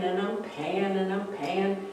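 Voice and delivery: fading weary repetition. Shown as a demonstration. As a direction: let it trail off tiredly.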